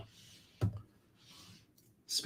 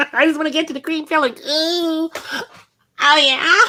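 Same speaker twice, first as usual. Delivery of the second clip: silly voice; 12 semitones higher than usual. Pretend. Mock craving cream filling.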